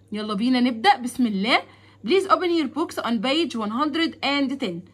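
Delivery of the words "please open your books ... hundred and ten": slow classroom instruction. Shown as a demonstration. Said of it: "teacher instruction, slow".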